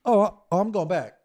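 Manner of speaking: high-pitched, miffed doggy voice; hurt dog. Acted. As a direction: react like a dog who feels betrayed. Voices hurt dog being returned.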